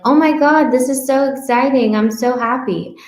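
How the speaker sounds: high, bubbly mock delight; mock thrilled. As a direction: gush like a thrilled dieter, playfully. Dieter sees another loss.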